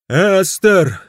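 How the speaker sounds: loud, high, desperate cry; desperate shout. Acted. Greenberg bursts in shouting to his wife. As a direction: yell it out at the end of his rope. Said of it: "кричал он".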